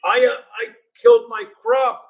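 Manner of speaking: half-hearted outraged shout; exasperated yell. Retold or imitated. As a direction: rant it like a fed-up farmer. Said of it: "And he's like".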